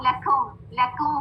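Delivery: लेकुम with a slack "o" for "oo"; unrounded mistake. Shown as a demonstration. Teacher showing a common mistake, unrounded vowel. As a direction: say लेकुम without rounding the lips. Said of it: "पढ़ते हैं without rounding".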